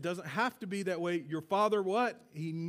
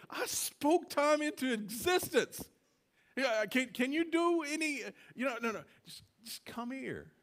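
voice of God; 5 semitones higher than usual. Retold or imitated. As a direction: speak as the creator, then gently beckon.

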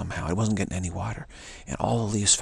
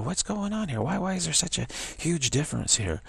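surprised question; 7 semitones higher than usual. Pretend. Imagined puzzled question.

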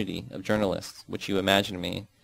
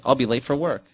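angry exclaiming; 4 semitones higher, 4 dB louder than usual. Acted. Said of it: "she exclaims angrily".

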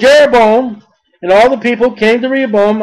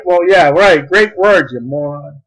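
sneering mockery; 7 semitones lower than usual. Mocking Rehoboam's arrogant reply.

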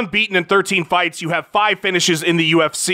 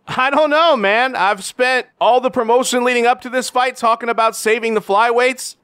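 higher, odd-timbred champ voice; mock Henry Cejudo; 4 semitones higher than usual. Champ answering a reporter, higher and awkward. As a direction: play the champ's awkward catchphrases.

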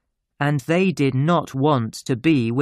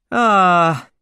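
long, loud, higher "ahh" of pleasure; contented "ah"; 5 semitones higher, 6 dB louder than usual. Acted. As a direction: sigh out loud with satisfaction. Doctor savours his pipe.

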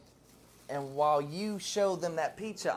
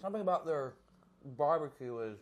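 food in mouth; chewing between words; speaking while chewing; 4 dB quieter than usual. Real, not acted. Seen 2: Took a bite at -5; jaw still working, pizza in hand while talking.

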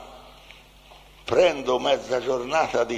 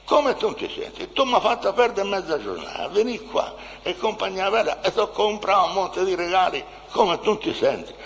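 indignant retort; 5 semitones higher than usual. Acted. His indignant retort in the quarrel.

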